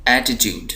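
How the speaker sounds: एटीट्यूड with ट्यूड given weight; stress on TUDE. Shown as a demonstration. Teacher pointing out the accent, stress on ट्यूड in एटीट्यूड. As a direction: lean on the last syllable ट्यूड in एटीट्यूड. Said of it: "जिस syllable को मैं ज़ोर दे रहा हूँ".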